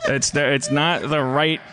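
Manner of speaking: words broken by laughter; laughing. Real, not acted. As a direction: talk through laughter. Laughing while speaking.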